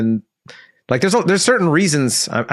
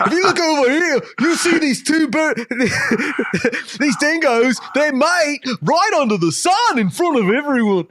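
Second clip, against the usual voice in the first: mock British documentary narrator; 12 semitones higher than usual. Spoofing a British wildlife documentary, very high British voice. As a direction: narrate the dingoes like a plummy British presenter. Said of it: "refined British voices".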